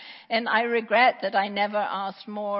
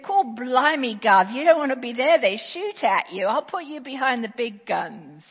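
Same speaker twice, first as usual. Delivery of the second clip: loud, hearty mock Cockney, dropping off toward the end; imitating a Cockney recruiter, louder at the start; 6 dB louder than usual. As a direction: bellow it like a cheeky London army recruiter. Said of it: "the Cockney recruiter said".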